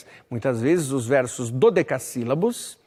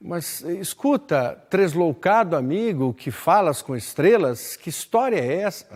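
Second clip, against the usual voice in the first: recited questioner; 3 semitones higher than usual. Acted. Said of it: "naquela pergunta que se faz".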